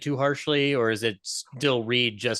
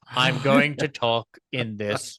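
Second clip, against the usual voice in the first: mock Hitchcock drawl. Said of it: "No, no, Hitch".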